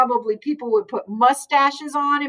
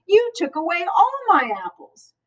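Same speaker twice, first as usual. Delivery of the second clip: shouting; 8 semitones higher than usual. A narrator's reading. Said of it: "shouted Andy".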